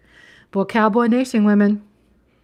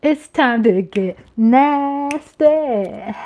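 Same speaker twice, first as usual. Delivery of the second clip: sly tease; 3 semitones higher, much slower than usual. Pretend. Announces she'll get down.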